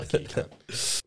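breathless hissed swear under the breath; whispered insult. Retold or imitated. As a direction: whisper it so he can't hear. Muttered insult at unhelpful worker.

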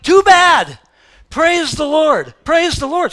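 high, loud, slow command; preacher overruling a reluctant soul, loud; forceful rebuke. Real, not acted. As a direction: snap back at the excuse. Preacher answering excuse forcefully.

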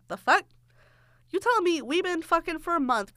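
high, incredulous retold confrontation; mock indignation. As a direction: challenge him in disbelief. Retells confronting him over plans.

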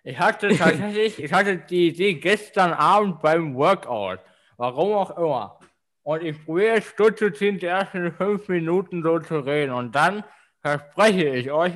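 talking around a cork in mouth. Real, not acted. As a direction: speak with a cork between the teeth. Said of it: "Das, das klingt so komisch".

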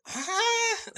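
shrieking huh into a laugh; high surprised shriek then laughter; shocked. Real, not acted. Shocked at eating-ass remark.

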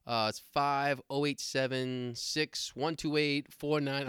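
slow, oddly paced digits; terrible phone-number rhythm. Retold or imitated. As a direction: mimic someone dragging out their phone number. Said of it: "terrible telephone rhythm when they're giving you their telephone".

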